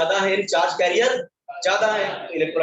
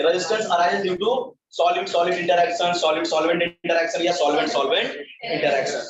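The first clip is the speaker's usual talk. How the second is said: slow, spaced-out note dictation; much slower than usual. Real, not acted. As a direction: dictate it slowly so students can write. Teacher dictates notes slowly. (धीमे-धीमे notes लिखवाते हुए)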